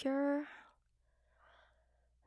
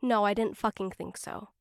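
taunting; 5 dB louder than usual. Acted. Taunting the flustered listener.

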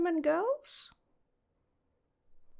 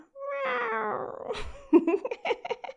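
giggle; 8 semitones higher than usual. Acted. Delighted master wants to mate.

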